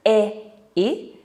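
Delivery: "e" as in bed, then "i" as in sit; contrasting vowel sounds. Shown as a demonstration. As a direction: give the two vowels "e, i" separately. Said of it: "The vowel sound is also different".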